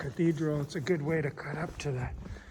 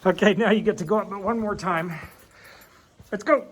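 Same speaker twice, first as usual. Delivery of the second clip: cheerful urging; 5 dB louder than usual. Real, not acted. Urging the dog on.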